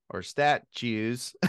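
chuckling through the pun; laughing. Real, not acted. Host amused at his own statues pun, laughing. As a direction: laugh the word out slowly.

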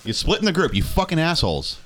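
mock outrage at friends; exasperated. Real, not acted. Exasperated at the party splitting.

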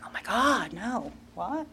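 soft, retold alarm; acted small-voiced protest; hushed dismay. Retold dismay at God's prompting.

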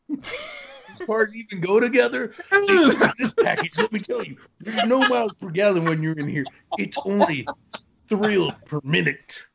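car salesman pitch. Pretend. Mock used car ad.

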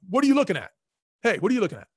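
high, loud challenge from the porch; retold yell. Tough guy on the porch yells at a stranger, loud mock yell. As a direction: bark the question like a tough guy guarding his porch. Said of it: "one of the guys yells at me".

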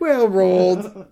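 high, loud, stretched-out hawker voice; imitated shady seller. Seller playing along with tourist's joke, high mock assurance. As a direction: draw it out as a put-on vendor. Continuing the cigar seller act.

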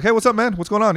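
high, breezy retold hello; casual greeting. Comic getting offstage and greeting the organizer, breezy. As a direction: act out an easy greeting. Retelling his greeting after the set.

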